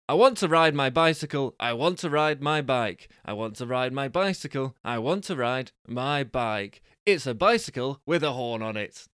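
lively prize-reveal patter; punchy announcer read, easing after the first phrase; game show prize announcer. Acted. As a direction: sell the prizes with showy cheer.

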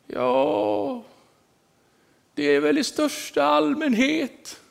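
put-on high, slow old lady voice, unbothered; matter-of-fact old lady. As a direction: shrug it off as an old woman would. Agnes svarar lugnt om rädslan. (gammal dam, hög och långsam, oberörd)

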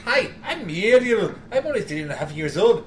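Scottish-accented impression with swooping pitch; Muriel. Quoting a three-and-a-half-year-old, Scottish accent attempt. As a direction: imitate a small child with a Scottish lilt. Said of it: "just quoted Muriel".

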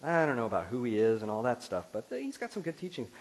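lightly voiced casual skeptic; a hint of someone shrugging Jesus off; mock skeptic. Pastor voicing a doubter who likes only teachings, light mock. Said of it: "and you say".

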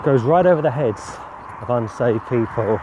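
a hint of pulpit preaching. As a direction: preach it out with rising conviction. Preaching the message to camera.

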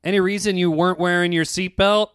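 mildly acted official questioning; imitated officer. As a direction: question the driver as a traffic cop. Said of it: "The guy walks out to my window and says".

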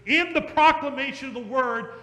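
very slow, heavy sermon close; preaching. Acted. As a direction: drive home "He saves you". Preaching climax.

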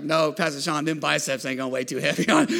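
mock skeptical churchgoer; teasing congregant. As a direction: poke fun at the pastor's biceps. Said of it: "Some of y'all laughing like".

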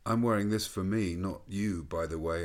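reproachful words through a mask; muffled rebuke. Retold or imitated. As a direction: scold a stranger from behind a mask. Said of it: "in a muffled voice of rebuke".

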